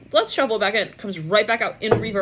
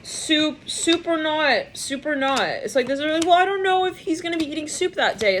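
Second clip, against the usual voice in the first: high mock insistence; 8 semitones higher than usual. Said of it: "this person's like".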